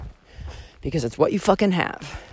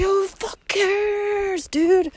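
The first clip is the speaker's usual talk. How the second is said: high, very slow breathy whisper; whispered shrug; 11 semitones higher, much slower than usual. Retold or imitated. Voicing her carefree attitude, a slow mock whisper. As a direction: toss it off in a whisper.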